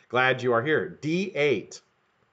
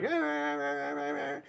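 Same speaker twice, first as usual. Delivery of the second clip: imitating the neighbor; 2 semitones higher, 11 dB quieter than usual. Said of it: "stood over me like".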